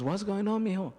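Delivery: a light imitation of his wife; worried wife. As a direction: voice his wife, high and concerned. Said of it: "And she goes".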